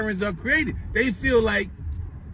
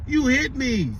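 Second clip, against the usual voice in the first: higher, whiny imitation of a crying kid; mock crying; 5 semitones higher, much slower than usual. Man mimicking a little girl at her mother, mock crying. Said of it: "She over there crying".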